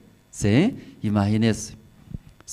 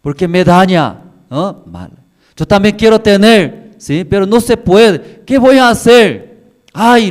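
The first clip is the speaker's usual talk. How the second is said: lamenting woman; 5 semitones higher, 6 dB louder than usual. Acted. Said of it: "escuchando de esa mujer".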